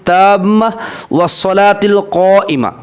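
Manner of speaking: slow, full, thicker recitation voice. Shown as a demonstration. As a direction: recite slowly with a fuller, heavier tone. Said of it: "आवाज़ को आपको पूर करना है, मोटी करनी है".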